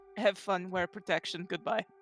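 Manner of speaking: flat, low, very quiet deadpan, barely audible. Retelling how a friend's character dismisses another before leaving: retelling a deadpan line. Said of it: "just deadpans goes".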